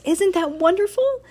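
high, loud gush of delight; lilting up high with delight. A narrator's reading. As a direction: gush it like a thrilled teacher. Gushing teacher in story.

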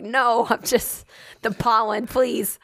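slow plea, breaking into a laugh; mock pleading. Excusing her smoker sound to strangers, mock pleading. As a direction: drag out a hammed-up excuse.

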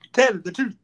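lightly imitated bad film accent; Will Smith's Concussion accent. Mocking a terrible accent in Concussion, lightly put-on imitation. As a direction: repeat the movie line in a mock accent. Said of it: "Almost as bad as Will Smith in".

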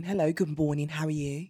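mock-proper English, Birmingham accent dropped; accent without Brummie. Shown as a demonstration. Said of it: "Well, I'd sound like this".

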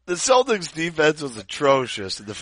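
serious line breaking into laughter; trying not to laugh. Real, not acted. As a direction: try to stay straight, then crack. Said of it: "we got the giggles".

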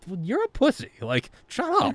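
high-pitched mock insult; mocking squeak. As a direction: squeak it out like a taunting kid. Mocking the doubt voice.

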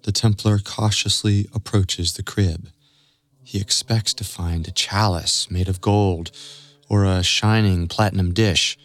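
rising suspense to a question; story narration. A narrator's reading.

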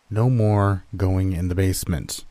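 firm fatherly warning. Acted. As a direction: lay down the rule firmly. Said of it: "he said firmly".

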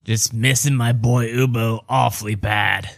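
lightly put-on folksy father; wistful dad character. Ubo's dad recalling missing his boy, lightly put-on. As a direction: miss your boy in character. Game master as the dad answers.

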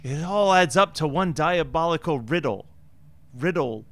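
mock-grave deduction, dragging out the last word; hammed-up police chief; police chief impression. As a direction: piece it together with comic weight. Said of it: "the chief of police going".

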